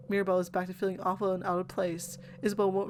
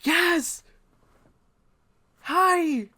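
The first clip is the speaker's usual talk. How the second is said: bright, high burst of a hello; chirpy greeting; 10 semitones higher, 9 dB louder than usual. Acted. Companion greets Siffrin out of nowhere, bright and high. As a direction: pop up cheerfully, much higher and louder.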